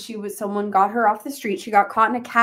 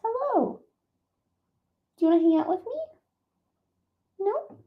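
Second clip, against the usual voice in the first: high coaxing coo; cooing to cat; 11 semitones higher, 3 dB quieter, faster than usual. Real, not acted. Streamer asking her cat to hang out, high coo. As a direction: sweetly invite the cat, voice up high.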